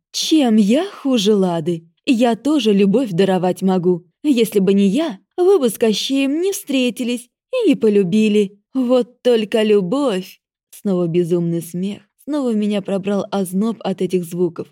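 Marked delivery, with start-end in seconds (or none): 0.1-10.4 loud prickly goddess. Acted. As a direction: bark it out, harsh and cutting. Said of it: "голос богини стал громким и колючим".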